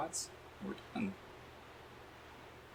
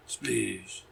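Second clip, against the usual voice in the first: drawn-out falling sound-effect voice; put-on splash, sliding down; mock splash cry. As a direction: stretch it out like a cartoon splash. Mimicking game's splash cry.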